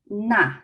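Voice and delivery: NA with a falling fourth tone. Shown as a demonstration. Teacher showing fourth tone, falling NA. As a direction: let NA fall firmly. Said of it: "it's a fourth tone".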